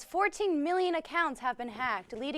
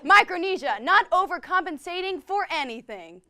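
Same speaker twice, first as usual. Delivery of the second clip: rally speech; 3 semitones higher, 6 dB louder than usual. Acted. Hosts hyping Micronesia like slogans.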